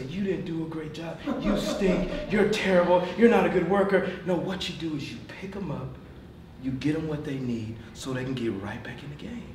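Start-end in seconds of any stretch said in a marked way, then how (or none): 0.0-4.1 mock scolding. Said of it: "point your finger at him and say".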